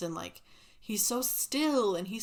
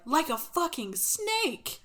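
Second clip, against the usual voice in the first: mock alarmed; 8 semitones higher, 4 dB louder, slower than usual. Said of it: "the caseworker's like".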